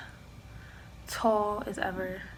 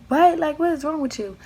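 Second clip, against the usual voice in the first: high, loud mock outrage; indignant retort; 6 semitones higher, 6 dB louder than usual. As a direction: act out fed-up disbelief, pitched up high. Retold quarrel with the ex-boyfriend.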